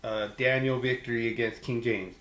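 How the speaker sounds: lightly voiced quiz-show host reading options. Host putting the fantasy question to listeners, quiz read.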